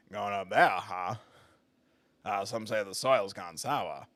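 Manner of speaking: put-on ominous rural Maine accent; creepy Maine accent. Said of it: "that creepy Maine voice".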